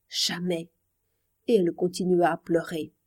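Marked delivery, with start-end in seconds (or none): 0.1-0.7 jamais breathed out far softer and lower, nearly gone; barely audible. A narrator's reading. Marie answers Pierre, barely audible through tears. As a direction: let jamais fade almost to nothing. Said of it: "d'une voix à peine perceptible".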